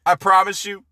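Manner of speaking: breaking into laughter mid-quote; reading a line and cracking up; giggling while quoting; laughing through the quote. Retold or imitated. Reading Biden quote aloud.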